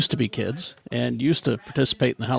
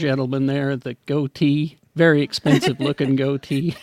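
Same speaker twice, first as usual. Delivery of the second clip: auctioneer. Pretend. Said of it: "Salt Lake as an auctioneer".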